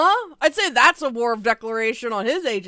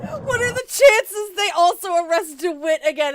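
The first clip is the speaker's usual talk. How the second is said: high-pitched, loud near-crying exclamation; exasperated outburst; 8 semitones higher, 5 dB louder than usual. Real, not acted. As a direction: blurt it out in disbelief.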